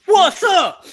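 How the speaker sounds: very high, loud squeal of "What's up?" into laughter; laughing catchphrase. Acted. Echoing a cohost's R-Truth catchphrase in a high laughing squeal. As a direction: shriek it back through a laugh.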